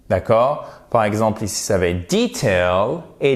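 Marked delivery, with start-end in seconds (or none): 2.1-3.0 detail as DEE-tail; British pronunciation. Shown as a demonstration. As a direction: model British detail with a long first vowel. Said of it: "en version britannique".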